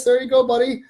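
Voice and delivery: bright, high, excited: There you go, buddy; excited high greeting. Real, not acted. Host cheering a viewer during stream shout outs, excited and high.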